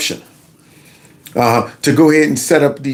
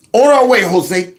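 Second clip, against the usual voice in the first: calling out; 4 semitones higher than usual. Acted. Calling out to ICE.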